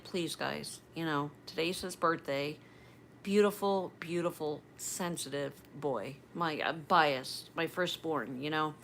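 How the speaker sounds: hushed, gentle plea to the online viewers; soft plea to camera. Retold or imitated. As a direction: speak softly into the camera, pleading. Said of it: "I kinda whispered into the camera".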